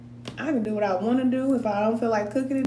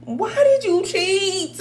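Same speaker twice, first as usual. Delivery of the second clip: mock whiny question; 8 semitones higher, 3 dB louder, much slower than usual. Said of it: "the dumbest question you can ever ask".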